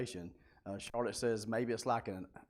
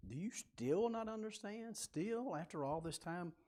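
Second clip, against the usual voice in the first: much higher, pressing "Do you still not understand?" with disbelief; exasperated questioning; 9 semitones higher, 5 dB quieter than usual. Shown as a demonstration. Teacher shows Jesus questioning the disciples, exasperated. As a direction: lean hard on "Still", incredulous. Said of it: "he's questioning them pretty hard".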